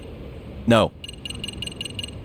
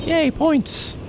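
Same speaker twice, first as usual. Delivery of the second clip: excited. Pretend. Cheering at points gained.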